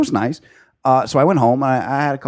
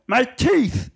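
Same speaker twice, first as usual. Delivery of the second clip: put-on baby voice; 13 semitones higher than usual. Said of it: "And I went".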